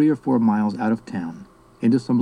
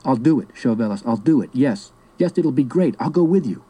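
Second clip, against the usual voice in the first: agitated; 2 semitones higher than usual. Acted. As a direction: blurt out the agreement in growing agitation. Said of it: "in the most agitated tone one can imagine".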